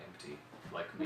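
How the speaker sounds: very low, very soft aside; quoting a killer's inner voice, hushed; hushed deadpan confession. Acted. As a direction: drop to a dark near-murmur. Quotes a dark Dexter line, deadpan.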